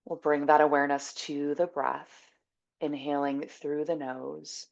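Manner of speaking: calm, measured breathing guidance; guided meditation. Acted. Teacher guiding listeners to inhale and exhale, calm meditation voice.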